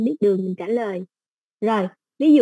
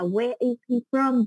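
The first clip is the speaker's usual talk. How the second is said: slow example question; slower than usual. Shown as a demonstration. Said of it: "hay là".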